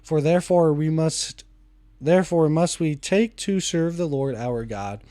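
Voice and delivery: steady, measured Bible reading aloud; scripture reading. Acted. Reading Exodus aloud to viewers, measured scripture reading.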